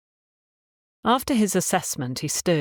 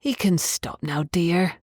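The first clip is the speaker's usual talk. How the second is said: cooing landlady; slower than usual. Acted. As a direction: ease her gently, like a kind old landlady. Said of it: "she cooed".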